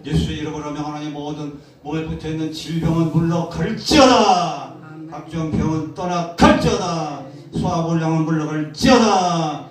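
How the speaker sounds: loud, forceful preaching commands; a pastor rebuking illness and spirits, full force; healing command. Acted. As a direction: drive out sickness with full-voiced authority.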